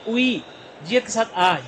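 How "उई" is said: "उई" starting straight on the vowel glide; silent initial consonant. Shown as a demonstration. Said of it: "ईएन silent होता है". ("उई" बिना शुरुआती व्यंजन के)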